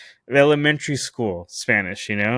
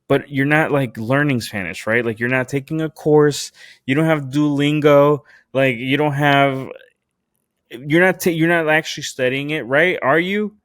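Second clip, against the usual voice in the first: higher-pitched retold grilling; challenging; 4 semitones higher than usual. Man questioning his date about learning Spanish, challenging. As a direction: press the point, mildly combative.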